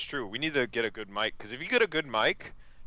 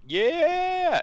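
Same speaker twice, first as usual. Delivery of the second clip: big high shouted yeah; triumphant cheer; 6 dB louder than usual. Retold or imitated. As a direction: whoop it like a victory. Country triumphantly sending invaders away.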